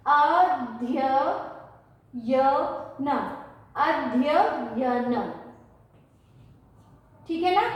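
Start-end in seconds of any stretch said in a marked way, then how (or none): 0.1-5.3 अध्ययन stretched very slowly with the या sounded; very slow demonstration. Shown as a demonstration. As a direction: model अध्ययन slowly for pupils to repeat. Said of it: "इस या का भी हमें साथ में उच्चारण करना है".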